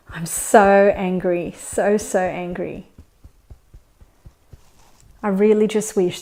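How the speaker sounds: understated demo anger, slow and heavy; slow, mock angry venting. Shown as a demonstration. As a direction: vent the anger slowly like a practice script, hammed-up. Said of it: "I think I sounded pretty angry".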